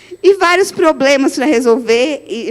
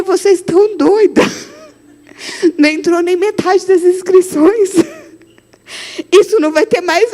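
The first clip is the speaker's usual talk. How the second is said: mock scolding husband; 5 semitones higher than usual. Husband scolding over spending.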